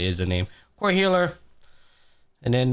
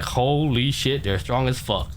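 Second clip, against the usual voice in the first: slow, drawn-out awe; retold amazement; slower than usual. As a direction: stretch it out, mildly stunned. Retold awe at their power.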